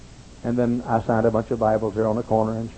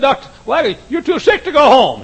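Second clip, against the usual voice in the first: nurse voice; 11 dB louder than usual. Retold or imitated.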